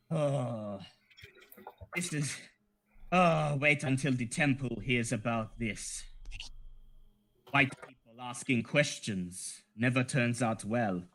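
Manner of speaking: soft, partly whispered grumble; mutter. Acted. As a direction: grumble under his breath so only one hears. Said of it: "you hear him mutter".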